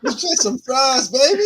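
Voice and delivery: slow, high, teasing cashier voice; mock flirty cashier.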